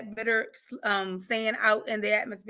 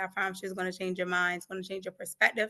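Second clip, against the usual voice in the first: ordinary talk, nothing marked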